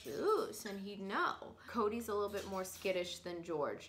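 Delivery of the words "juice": high, rising one-word parrot question; eager parrot. Acted. George the parrot answering an offer of juice, eagerly. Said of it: "And he'd be like".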